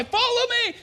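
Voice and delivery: yelling. Retold or imitated. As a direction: call them to follow. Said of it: "I began to yell".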